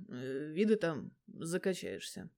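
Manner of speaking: slow, stunned and hesitant; stunned hesitation. Acted. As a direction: drag it out, caught off guard. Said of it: "опешившего Грома". (медленно и растерянно)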